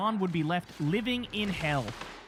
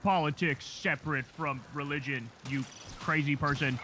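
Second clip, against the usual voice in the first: slow, lower, mock indignant voice; mock outrage; 4 semitones lower, slower than usual. Host mimicking critics scolding Jesus's message, slow. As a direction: drag it out with fake outrage. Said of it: "They go".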